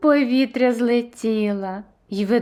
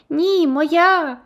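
high, loud shout; squirrel shouting back; 6 semitones higher, 4 dB louder than usual. A narrator's reading. Elvira shouts back at Mary, high and loud. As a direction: yell it right back, grabbing the cone. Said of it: "одна одній кричали".

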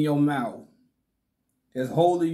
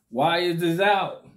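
laughing; 4 semitones higher than usual. Real, not acted. Laughing repeat vs plain take.

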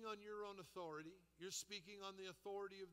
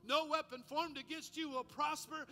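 declaring scripture; 2 semitones higher, 4 dB louder than usual. Retold or imitated. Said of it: "Things like this".

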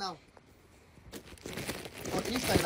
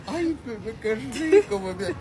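excited; 9 semitones higher, 4 dB louder than usual. Acted. Excited about delicious food.

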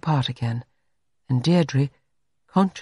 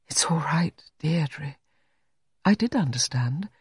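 reassuring; 5 dB quieter than usual. Acted. He calms distraught Deirdre.

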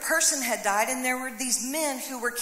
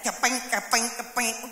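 sissy tapping noise. Retold or imitated. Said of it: "That is a sissy arrow thingy".

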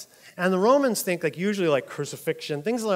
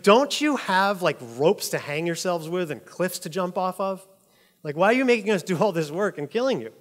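exasperated official; 3 semitones higher, 3 dB louder than usual. Retold or imitated. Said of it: "one that was quoted as saying".

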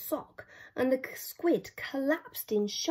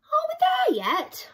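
much higher whiny whisper; grumbling child; 5 dB louder than usual. Acted. Yop complaining on the climb, whiny and whispered. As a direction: whine it like a tired kid. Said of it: "grumbled Yop".

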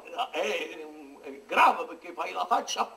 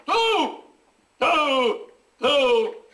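hammy Othello; 2 semitones higher, much slower than usual. Acted. Hammy Othello addressing Cassio.

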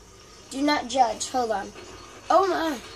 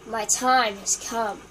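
mock dramatic; 4 dB louder, slower than usual. Dramatic line.

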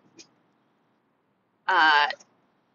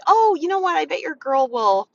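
higher, louder, friendly suggestion; chirpy helpful reply; 9 semitones higher, 5 dB louder than usual. Acted. Consultant helping a customer at the booth, chirpy and helpful. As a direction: pitch it up, brightly helpful.

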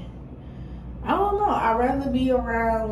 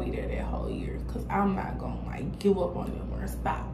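whispering; 5 dB quieter than usual. Real, not acted. Whispered commitment to her kids.

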